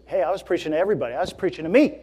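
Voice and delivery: quick, lightly insistent retold correction; polite correction. Pastor retelling his reply to a church member, polite correction. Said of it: "had a very polite correction".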